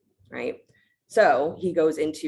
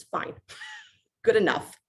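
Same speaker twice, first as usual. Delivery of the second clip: laughing acceptance; 8 semitones higher than usual. Retold or imitated. Ram accepting, amused.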